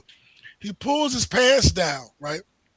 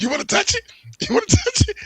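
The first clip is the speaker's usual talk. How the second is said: high squeaky taunt, louder; mock taunting; 5 dB louder than usual. Naked man taunting the two cops, high mocking squeal. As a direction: tease them in a silly high voice.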